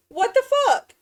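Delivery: high, loud outraged yell; outraged shriek. Real, not acted. Villager came back again.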